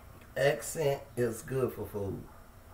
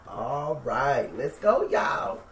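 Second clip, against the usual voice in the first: excited rally; 3 dB louder, slower than usual. Real, not acted. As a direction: fire up the viewers to start. Starting the cook, rallying viewers.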